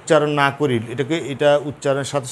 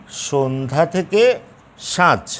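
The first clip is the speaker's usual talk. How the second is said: slow demo; slower than usual. Shown as a demonstration. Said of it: "আরও দেখো".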